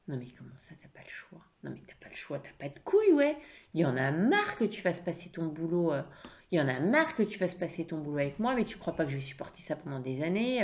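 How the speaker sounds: hammed-up accusing anger; acted reproach with sudden bursts; angry. Wife accusing husband of putting work first, angry. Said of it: "la première version en mode, euh, colère".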